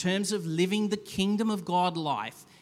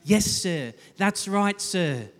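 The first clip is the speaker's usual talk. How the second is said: obsequious; 3 semitones higher, 4 dB louder than usual. Retold or imitated. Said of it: "Why are you being so polite with me?".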